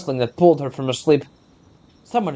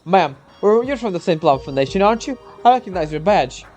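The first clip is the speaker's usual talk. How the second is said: lightly raised earnest soldier; young soldier voice; 2 semitones higher than usual. Acted. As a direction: explain urgently, a hint of nerves.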